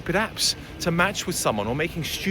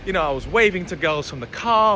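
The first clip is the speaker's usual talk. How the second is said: usual speaking voice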